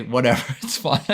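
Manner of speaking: laughing through the words. Real, not acted. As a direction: chuckle it off as you say it. Laughs at himself mid-sentence.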